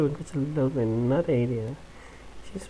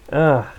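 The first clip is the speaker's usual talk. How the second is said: loud fed-up ugh; real exasperated groan; disgusted groan; 5 dB louder than usual. Real, not acted. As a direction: groan in frustration. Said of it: "So fucking annoying".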